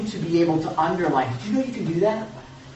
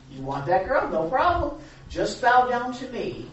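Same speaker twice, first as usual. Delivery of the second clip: tempting Satan; 6 semitones higher than usual. Acted. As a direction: dangle the offer like the devil selling a deal. Preacher voices Satan tempting.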